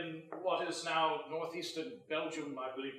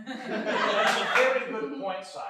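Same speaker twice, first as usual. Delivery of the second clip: laughing; 4 dB louder, slower than usual. Acted. Improv courtier answering the king.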